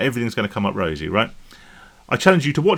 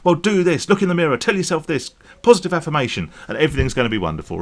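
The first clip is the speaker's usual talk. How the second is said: higher-pitched mock motivational speaker, mildly raised voice; Tony Robbins; 5 semitones higher, faster than usual. Motivational speaker to a crowd stuck in a rut, mock rallying. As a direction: imitate a stage pep talk in a pitched-up voice. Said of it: "he stands on stage and he yells at people".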